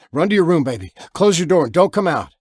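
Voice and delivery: loud, urgent order to hide; urgent command. Acted. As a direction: push her to run now. Father urges daughter to hide.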